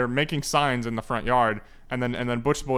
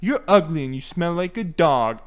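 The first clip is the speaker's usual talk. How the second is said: lightly voiced villain bully; old-time villain taunt; 4 dB louder than usual. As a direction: taunt like a hammy prank caller. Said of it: "he also talks like a, like a nineteen thirties villain".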